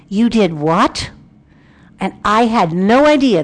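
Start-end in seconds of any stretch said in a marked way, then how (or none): 0.1-1.1 slow, rising disbelief; incredulous doctor. Retold or imitated. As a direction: imitate a doctor's drawn-out disbelieving question. Doctor's shocked question, acted.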